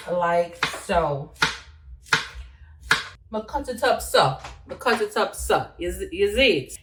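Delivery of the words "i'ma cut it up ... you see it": Jamaican Patois accent. Shown as a demonstration. Vlogger showing viewers how she cuts, patois accent. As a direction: show the cut, speaking Jamaican Patois. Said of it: "I'll talk patois".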